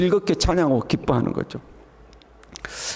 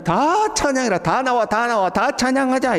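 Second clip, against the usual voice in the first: higher-pitched rallying call to praise; 6 semitones higher than usual. Acted. Preacher voicing the call for all to praise, rallying. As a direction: call everyone out to join in.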